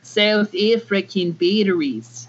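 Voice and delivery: put-on slow South African accent; South African batteries, open vowels. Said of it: "with a South African accent".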